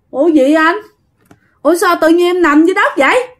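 put-on a lost young spirit waking up puzzled; a spirit speaking through Thuận, high and bewildered; possessed boy's voice. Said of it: "Lúc đó giọng Thuận trở về bình thường".

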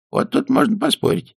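put-on high arch old lady objection; objecting old dame. A narrator's reading. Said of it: "возразила старая хозяйка".

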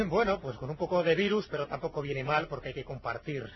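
hoarse, rough voice from a cold; cavernous voice. Real, not acted. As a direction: talk through a sick, rasping throat. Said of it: "salvo esta voz cavernosa que tengo".

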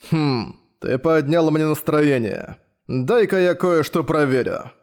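slow, pleased menacing drawl; enjoy the threat slowly; gleeful villain. Acted. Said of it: "радостно проговорил".

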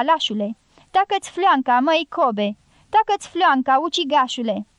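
unleash savage, uncontrolled rage; furious outburst. Acted. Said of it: "izbucni cu o furie sălbatică nestăpânită".

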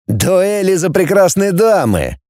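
slow, lightly mocking smirk; a touch of scorn, slowly; smirking verdict. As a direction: drawl it out with a smirk. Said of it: "усмехнулся".

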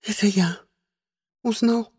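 high, lilting put-on voice; sing-song, unnatural voice. A narrator's reading. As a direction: coo it in a voice not your own. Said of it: "не своим голосом пропела Диана".

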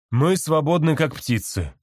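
high, slow squawky parrot voice; a parrot parroting a slogan; parrot mimicking. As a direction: mimic the man like a talking parrot. Parrot repeats the man's words.

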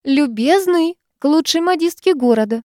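high call to the coachman. Acted. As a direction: call out across the street, high. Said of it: "крикнула терпеливо ждавшему кучеру".

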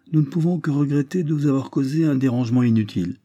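lightly voiced American, a touch of triumph; eager American. American tells Garrideb the case is settled, eager. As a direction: announce the news like a pleased visitor.

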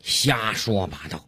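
understated police officer voice; lightly voiced policeman.

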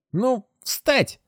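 high, creaking ghostly voice; creaky dead man's voice. Acted. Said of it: "скрипит голос покойного".

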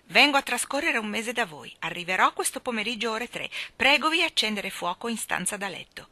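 announcing read-aloud voice. A narrator's reading. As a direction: read the telegram out clearly. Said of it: "lesse ad alta voce".

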